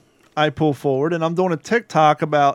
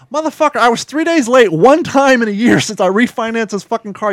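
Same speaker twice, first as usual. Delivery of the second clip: ordinary talk, nothing marked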